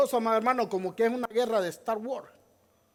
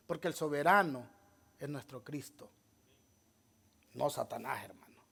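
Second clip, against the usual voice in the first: sudden hush; 8 semitones lower, 9 dB quieter than usual. Real, not acted. Preacher drops to near silence.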